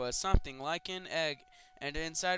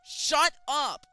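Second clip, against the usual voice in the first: high, loud snap; angry shout; 11 semitones higher, 10 dB louder than usual. Acted. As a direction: shut him up sharply. Voice from bottom bunk.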